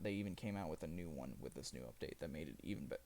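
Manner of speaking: talking through hiccups; hiccuping. Real, not acted. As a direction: hiccup breaking into words. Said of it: "excuse me, I'm hiccuping".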